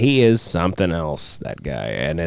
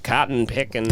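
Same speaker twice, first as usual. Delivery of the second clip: put-on Southern accent; 2 semitones higher, 3 dB quieter than usual. Mocking his uncle back from Kentucky, Southern accent. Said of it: "he had a Southern accent".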